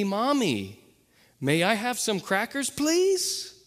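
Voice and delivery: mother modeling a polite request; coaxing mom voice. Retold or imitated. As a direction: show the polite way to a toddler. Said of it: "that she says".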